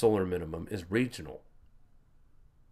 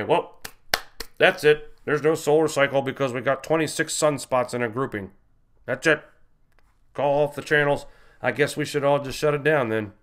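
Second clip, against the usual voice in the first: loud mock declaration easing into dry praise; pure sarcasm; 3 semitones higher, 4 dB louder than usual. Host mocking a debunker's short video, sarcastic. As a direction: sarcastically call it all off, then congratulate him. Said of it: "hear the sarcasm in my voice".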